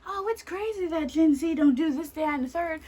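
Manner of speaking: high-pitched mock bewilderment; mocking the hosts. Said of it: "to be acting as if".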